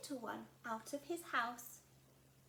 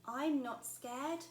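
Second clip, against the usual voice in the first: put-on louder, very slow insisting child; brave little Gruffalo; 3 semitones higher, 7 dB louder, much slower than usual. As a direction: brave words said very slowly to herself.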